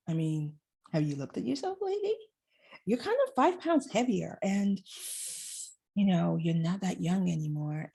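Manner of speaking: belittling inner voice, lightly played; sneering inner critic. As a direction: talk down to yourself like a nagging inner critic. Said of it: "That voice, that heifer".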